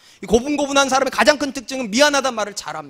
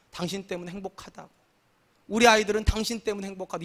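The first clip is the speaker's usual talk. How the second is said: grateful wife; 5 dB quieter than usual. Shown as a demonstration. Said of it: "아내가 이렇게 말해야 되잖아요".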